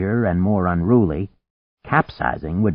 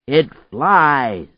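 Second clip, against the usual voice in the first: raised voice repeating itself; shouting; 5 semitones higher, 4 dB louder than usual. A narrator's reading. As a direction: call it out higher over the wind. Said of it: "he shouted".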